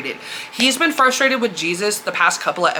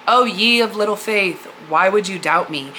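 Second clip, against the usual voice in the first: a hint of fatherly reproach, not condescending; gentle father figure. Jesus holding Simon in his arms, mild fatherly reproach. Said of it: "kinda like a father figure".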